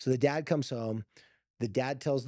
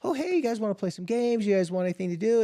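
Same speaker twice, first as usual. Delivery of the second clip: friendly mom; 7 semitones higher than usual. Retold or imitated. Mom hosting daughter's friends.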